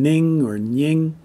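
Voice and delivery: ning or nying, starting on plain n or ny; mistaken n sounds. Shown as a demonstration. Teacher showing learners' mistake, wrong initial consonant. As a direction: say ning and nying slowly, n in place of ng. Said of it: "If you're still saying".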